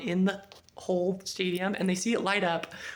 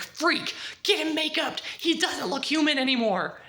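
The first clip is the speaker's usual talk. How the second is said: higher, hurried panic; panicked urgency; 8 semitones higher than usual. Retold or imitated. Julie hearing her dad downstairs, panicked and higher. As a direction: rush it in a panic.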